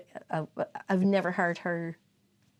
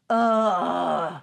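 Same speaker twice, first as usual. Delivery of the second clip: crowd groan; 4 semitones lower than usual. Retold or imitated. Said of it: "it was pure".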